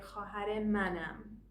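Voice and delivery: manam joined into one word; run together. Shown as a demonstration. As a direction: blend man ham into manam. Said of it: "so it sounds like".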